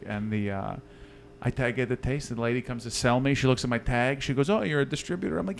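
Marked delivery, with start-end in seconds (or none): 4.5-5.4 put-on higher-pitched, light German accent. German saleswoman greeting a visitor, light German accent. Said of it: "I can't do a German accent".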